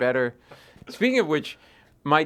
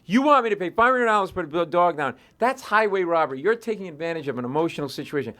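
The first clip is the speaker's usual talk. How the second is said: raised, heated complaint at the vet; retold snapping rant; 5 semitones higher than usual. Man snapping at vet technician over prices, heated rant. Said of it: "And I snap".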